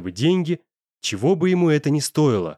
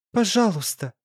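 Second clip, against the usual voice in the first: sobbing; 7 semitones higher than usual. A narrator's reading. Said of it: "всхлипнула Настя".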